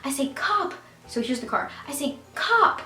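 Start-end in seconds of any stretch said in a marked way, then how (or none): 0.3-0.7 high re-enacted yelp; quick, high-pitched alarm call; retold scream. Teen warning friend about police car, high retold yelp. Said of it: "kinda screamed". 2.4-2.8 high, loud yelp of alarm; retold scream. Teen warning friend of police car, retold high scream. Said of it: "kinda screamed".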